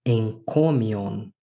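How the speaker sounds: slow "Encomion" with a nasal n before the k; careful, drawn-out "Encomion", gamma read as n; nasalized gamma. Shown as a demonstration. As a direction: model "Encomion" slowly as en-CO-mi-on. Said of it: "ele vai sofrer uma alteração fonética".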